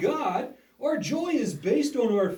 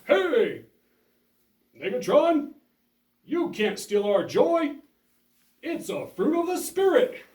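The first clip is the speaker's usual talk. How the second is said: stern call-out. Acted. Host confronts villain.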